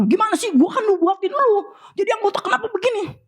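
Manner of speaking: high, exasperated scolding of a friend. Retold or imitated. Preacher scolding a friend who left church, mock-exasperated. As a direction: scold him, half-joking. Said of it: "saya omelin".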